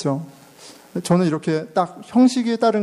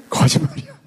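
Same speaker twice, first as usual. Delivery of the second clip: mock high voice. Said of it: "봤지?".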